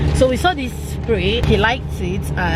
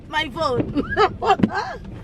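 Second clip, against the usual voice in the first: thrilled squeal; 9 semitones higher, 5 dB quieter, much slower than usual. Real, not acted. Thrilled about a new phone.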